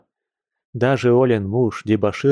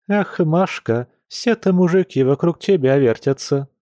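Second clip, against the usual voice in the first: playful teasing; 6 semitones higher than usual. Acted. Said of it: "весело подмигнула подруга".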